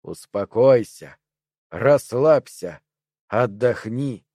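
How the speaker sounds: soothing. Acted. The triangles coax the furious Perry to calm down, slow and soothing. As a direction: lull him like a hypnotist.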